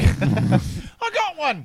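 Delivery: character impression. Game voice impression.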